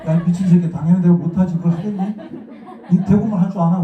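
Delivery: loud, indignant comeback, hammed up; mock angry retort. Retort to the director friend who doubted his Seoul speech, mock angry outburst. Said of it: "죽여버리려고 했어".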